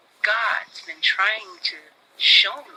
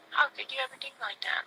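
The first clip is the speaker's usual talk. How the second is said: hushed, higher and quick; retold hurt reproach; 7 semitones higher, 8 dB quieter, faster than usual. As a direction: reproach him almost in a whisper. Retells telling brother he hurt her.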